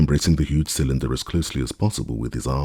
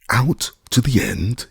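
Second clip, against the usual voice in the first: much higher, slow alarmed cry; screamed; 9 semitones higher, 4 dB louder, slower than usual. A narrator's reading. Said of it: "here fairly screamed Legrand".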